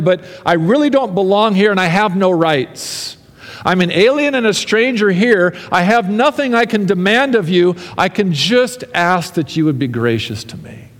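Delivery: David begging God for grace; pleading prayer. Acted. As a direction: cry out to God for mercy. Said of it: "David says".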